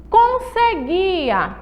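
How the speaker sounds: "Conseguia" stretched syllable by syllable, high and slow; drawn-out model word. Shown as a demonstration. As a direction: model "Conseguia" slowly for pupils. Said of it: "Olha a letrinha N".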